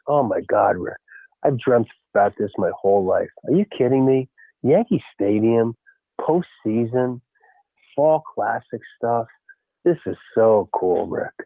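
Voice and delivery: awestruck, slowing right down; retold awe. Retelling awestruck pitcher's words.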